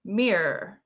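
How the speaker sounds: "mirror" as one syllable, "meer"; imitated American pronunciation. Streamer trying out the American way, one-syllable meer. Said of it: "That's how you say mirror in America".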